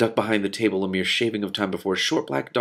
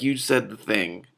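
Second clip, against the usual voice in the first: mock viewer quote; slower than usual. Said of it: "all of you are like".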